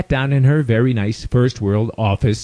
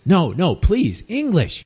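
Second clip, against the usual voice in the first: higher-pitched mock plea, rising sharply; imitating the doctor; 5 semitones higher, slower than usual. Doctor stopping her patient's Spanish, imitated high plea. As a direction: imitate a woman pleading in a raised pitch. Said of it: "she stops me and says".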